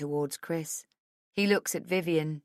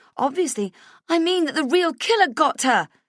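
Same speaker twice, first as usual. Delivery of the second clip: shrill tense raised insistent voice; 10 semitones higher, 9 dB louder than usual. Insisting the real killer got her, unable to help it: shrill. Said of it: "I can hear how shrill I sound".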